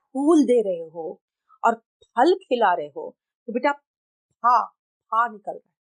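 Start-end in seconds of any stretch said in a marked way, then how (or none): 4.3-5.3 फा as a puff with lips closing first; Hindi ph. Shown as a demonstration. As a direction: pop फा from closed lips. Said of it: "Hindi वाला फा है". (होंठ जोड़कर हिंदी फ)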